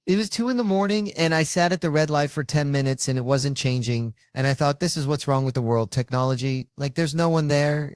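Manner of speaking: acted-out exasperated recollection; worked-up storytelling. Agent recounting a stuck red light to Ted, worked-up.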